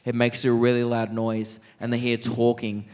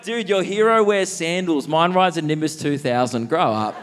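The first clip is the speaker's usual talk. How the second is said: higher, louder taunting brag; mock taunt; 5 semitones higher, 3 dB louder than usual. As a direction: brag like a cocky schoolkid. Mocking the Bible kid.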